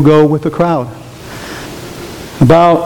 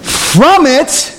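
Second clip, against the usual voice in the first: high, swelling pulpit preaching; 10 semitones higher than usual. Acted. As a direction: drive the point home from the pulpit. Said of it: "I'm preaching".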